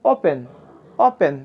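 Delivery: ওপেন opening on a plain o; clear o sound. Shown as a demonstration. Teacher giving an example of the letter o, clear o in ওপেন. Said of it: "ও এর মতোই উচ্চারিত হয়".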